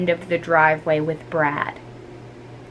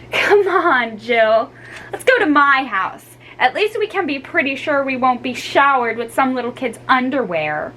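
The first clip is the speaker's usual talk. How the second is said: gasping laughter; 4 semitones higher than usual. Acted. Dolores to Jill, laughing and gasping. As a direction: speak through giggles. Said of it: "Dolores gasped".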